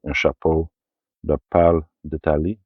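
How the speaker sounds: a quick, mock French accent on the title. Shown as a demonstration. A film collector showing off the original French title in a playful French accent. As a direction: roll the French title out in an English speaker's French accent. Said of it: "Do you like my French accent?".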